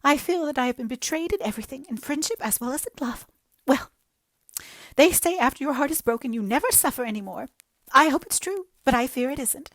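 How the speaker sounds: high, loud, self-pitying lament; jilted girl pouring out woe to Anne; melodramatic young woman. Acted. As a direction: wallow in every word like a tragic heroine.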